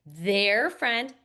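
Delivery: "Their friend" scooped as one chunk; "Their friend" as one rising phrase. Shown as a demonstration. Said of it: "I'm scooping with my hands".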